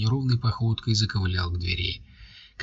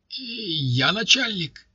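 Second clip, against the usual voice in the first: mumbled; 11 semitones higher, much slower than usual. A narrator's reading. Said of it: "забормотал мордоворот".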